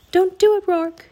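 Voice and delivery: high, loud urgent plea; urgent cry. A narrator's reading. Annie begging Rourke not to obey the king, urgent cry. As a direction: call out to stop him.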